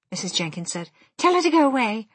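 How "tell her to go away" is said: high, snooty brush-off; haughty dismissal. Acted. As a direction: wave her away with disdain. Mrs Jenkins dismissive.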